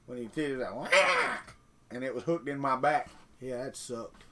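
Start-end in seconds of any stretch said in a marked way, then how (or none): 0.7-0.9 sudden rising "wah" noise; quick vocal sound effect; imitated reel noise. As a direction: mimic gears giving out with a quick croaked wah. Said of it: "heard the gears go out".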